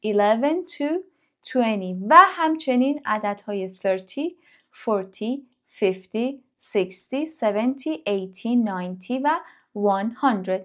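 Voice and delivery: English numbers drawn out one by one; slow number list. Shown as a demonstration. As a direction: count slowly so students can repeat. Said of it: "اعداد از یازده تا بیست". (شمردن آهسته و کشیده)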